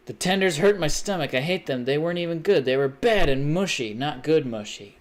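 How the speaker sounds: imitating a picky eater's whine; whiny complainer. Mocking friend's complaint about tenders, mildly whiny. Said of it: "I think she don't like the tenders".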